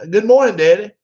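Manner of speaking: high, loud sing-song greeting to dad; sweet phone greeting. Retold or imitated. Son calling his dad on the phone, high sing-song greeting. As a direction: chirp it up like a kid calling daddy. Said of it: "and Rob calls".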